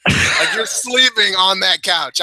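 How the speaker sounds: slow, drawn-out ribbing with a laugh; slow laughing jab about the couch; laughing tease. Real, not acted. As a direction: drag it out, chuckling. Teasing, laugh heard.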